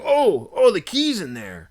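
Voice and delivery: high, loud oh, then dropping; surprised realization. Retold or imitated. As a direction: imitate a friend's sudden dawning surprise. Friend suddenly spots the key.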